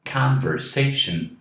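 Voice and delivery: Conversation with CON light and SA the strongest; stress on sation. Shown as a demonstration. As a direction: hit SA in Conversation hardest. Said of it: "Mas esta é a mais forte".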